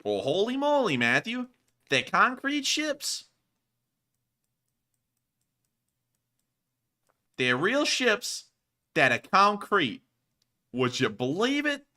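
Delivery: high, loud and slow with disbelief; holy moly, genuinely amazed. Real, not acted. Amazed at concrete ships.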